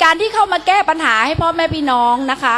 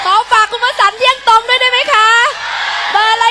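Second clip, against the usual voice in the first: raised rally call, pushed out to the crowd; 3 semitones higher than usual. Real, not acted. Candidate rallying Ban Pong voters for votes, calling out.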